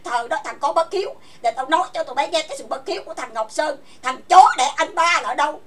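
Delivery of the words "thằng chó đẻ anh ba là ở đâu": loud furious demand; angry shout. Real, not acted. Ranting at her ex on stream, furious shout. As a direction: yell the insult out in rage. Angry rant at former partner.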